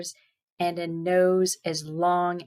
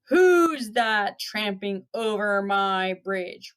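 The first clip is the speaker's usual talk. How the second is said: slow, drawn-out troll challenge; lightly roared, stretching out the words; mild troll roar; 3 dB louder, slower than usual. Acted. Troll challenging the goat on his bridge, mildly roaring. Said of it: "roared the troll".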